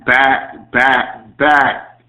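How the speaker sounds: mock echo on back, back, back; like a radio echo fading; echo effect. Host greeting listeners with a hammed echo.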